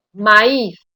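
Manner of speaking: maíz with a loud stressed Í. Shown as a demonstration. Teacher giving students the solution, stressed Í in maíz. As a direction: punch the Í in maíz. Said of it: "la I en todos estos casos se oye con mayor intensidad".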